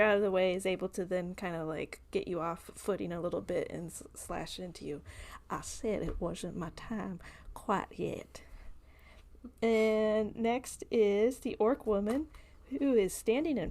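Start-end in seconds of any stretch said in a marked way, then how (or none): 5.5-8.4 whisper. Acted. GM voices dying bandit.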